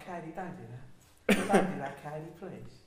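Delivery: light celebrity impression, laughing through it; a singer. Mock pleading with Katie, lightly voiced celebrity impression. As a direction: plead as the singer, half laughing. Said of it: "That's more the singer"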